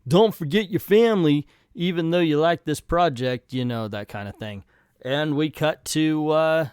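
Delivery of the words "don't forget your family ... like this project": nagging sibling. Retold or imitated. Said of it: "and they're like".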